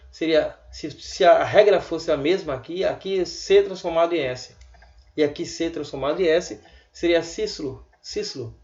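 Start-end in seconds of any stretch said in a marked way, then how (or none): 5.2-8.6 Cícero said sislu with both C as S; mock misread Cícero. Shown as a demonstration. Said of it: "Mas ninguém fala assim".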